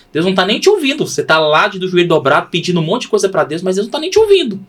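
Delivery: high, pressing mock scolding; taunting doubter, pitched well up. Mimics a doubting taunt, then answers it.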